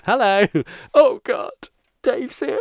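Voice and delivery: bright hello turning to dismay; acted room reaction. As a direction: play a greeting met with dismay. Acting out entering a room.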